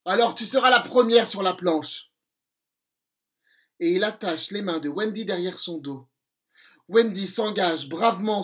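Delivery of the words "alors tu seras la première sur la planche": menace de pirate. Acted. Crochet menace Wendy.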